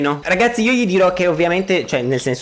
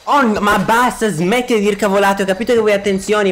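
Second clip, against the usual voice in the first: high character voice; 9 semitones higher than usual. Acted. Character voice of game persona.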